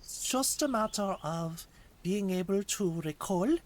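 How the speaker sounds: put-on German accent with rising ends; stereotypical German accent. Streamer explaining how they recall voices, put-on German accent. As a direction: keep up the mock German accent. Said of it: "regular German".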